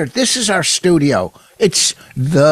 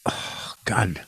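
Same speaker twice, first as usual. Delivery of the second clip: whisper; 6 semitones lower, 12 dB quieter than usual. Real, not acted. Reaction to Canadian phrase.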